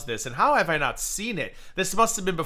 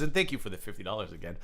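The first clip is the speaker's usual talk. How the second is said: imitating; 9 semitones lower, 8 dB quieter, faster than usual. Imitates the streamer's thanks.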